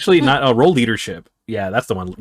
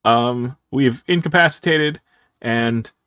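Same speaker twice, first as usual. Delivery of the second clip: intercom announcement; 4 semitones higher than usual. Acted.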